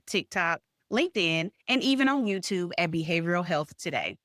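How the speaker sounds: polished host sign-off, evenly projected; scripted announcer-like delivery, each platform set apart; podcast outro read. Acted. Host thanking listeners and closing the show, scripted read.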